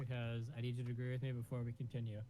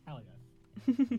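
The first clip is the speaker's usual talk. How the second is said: emphatic cheer; 3 semitones higher, 11 dB louder than usual. Real, not acted. Joking about desk work.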